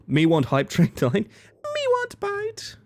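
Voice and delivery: caveman creature. Acted. Cave-creature talk for hype train.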